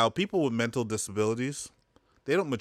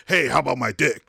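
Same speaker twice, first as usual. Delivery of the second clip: mock creep pitch; 6 dB louder than usual.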